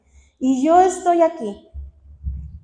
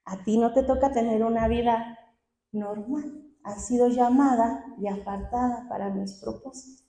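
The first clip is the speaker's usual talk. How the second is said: softer, gently firm divine answer; lightly voiced God, quietly setting her apart; quoted voice of God; 5 dB quieter than usual. God refusing her a normal life, softly voiced answer. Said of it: "el Señor me dijo".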